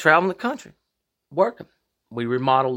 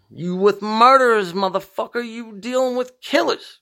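slow, higher, louder menacing thug voice on the first words; tough guy threat; 8 semitones higher, 3 dB louder than usual. Retold or imitated. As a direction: act out a street tough warning people off.

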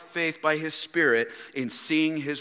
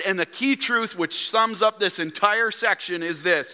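deliberate, raised sermon statement; measured pulpit emphasis; emphatic preaching; 6 semitones higher, 3 dB louder than usual. Real, not acted. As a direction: drive the main point home to the congregation. Preaches the main statement again.

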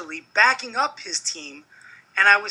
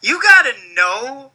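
wrestling promo. Acted. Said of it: "When you cut a promo".

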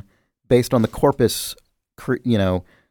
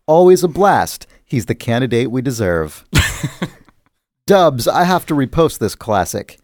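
reciting a sonnet. Shown as a demonstration. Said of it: "I'm gonna read these sonnets now".

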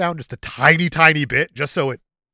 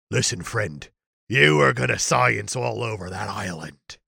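bad English accent; 5 semitones lower than usual. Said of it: "as good of an English accent as Russell Crowe can do".

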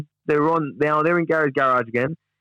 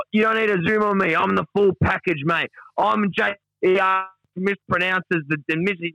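higher-pitched, self-important protest; insistent boasting; 5 semitones higher than usual. Acted. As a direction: act out someone insisting on their own importance. Voicing Duck's insistent boast from transcript.

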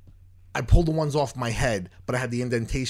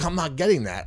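louder, fast, mildly heated retort; fed-up retort; 4 semitones higher, 3 dB louder than usual. Retold or imitated. Patient refusing the machine to the nurse, mildly heated. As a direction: shut her down, mock indignant.

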